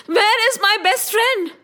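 acted anxious questioning; urgent demand. Krishna demands answer from guards.

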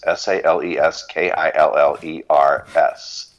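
letter by letter, slowly; spelled out slowly. Shown as a demonstration. Spelling the web address for listeners, slowly. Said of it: "with an S on the end".

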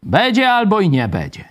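high, slow, drawn-out mock prophecy; mocking a prophet. Teacher mocks a Pentecostal prophet for students, slow and high. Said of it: "On mówi, że".

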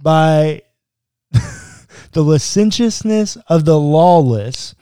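deliberate, emphatic read-aloud; scripture reading. A narrator's reading. Podcast host reading verses about Lot, emphatic reading. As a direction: read the verse out, stressing key words.

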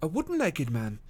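a mild, casual query; bland surprise. A narrator's reading. Detective feigns mild surprise to the wife, blandly. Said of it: "with bland surprise".

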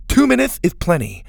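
high, loud reassurance; eager assurance. A narrator's reading. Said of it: "Mac assured her".

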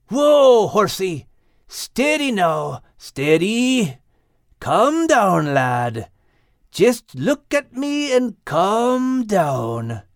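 slow, firm soothing commands. A narrator's reading. Max firmly calming the rearing stallion. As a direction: take control, steady and firm. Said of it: "with a firmness".

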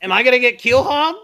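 high, worried question; nervous squeak. Acted. Crewman worried about punishment before slapping the captain, nervous high voice. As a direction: ask it nervously, voice jumping up.

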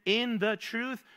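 slow emphatic quote. Shown as a demonstration. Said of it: "Your word is what?".

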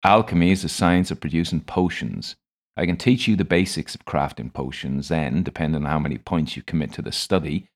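chemist's practised explanation; lightly voiced tutor reciting a set speech; well-prepared speech. A narrator's reading. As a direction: deliver it as a rehearsed spiel. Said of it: "as if delivering a well-prepared speech".

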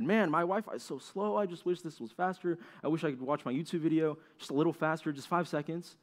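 lightly whiny, wishful grumble; frustrated complaint. Retold or imitated. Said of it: "And I get frustrated".

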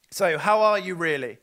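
offhand greeting voice. Shown as a demonstration. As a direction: toss the question off like small talk. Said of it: "repeated slower as the real question".

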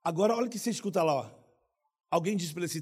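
ordinary talk

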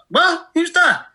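loud, high, confused yell down the phone; mock deaf dad shouting at a caller; hard of hearing shout. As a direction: bellow it like a deaf old dad. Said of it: "quite hard of hearing".

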